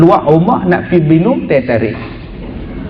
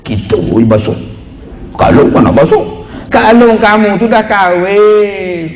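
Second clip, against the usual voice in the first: grumbling. Retold or imitated. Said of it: "mulutnya mengomel".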